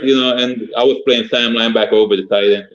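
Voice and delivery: ordinary delivery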